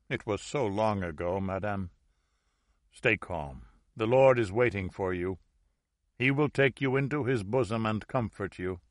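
a gentle priest at a deathbed; soothing priest. Acted. Priest soothes dying woman.

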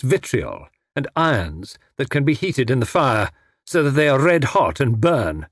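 lightly voiced threat, deliberate pauses; menacing villain. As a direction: spell out the torture with restrained menace.

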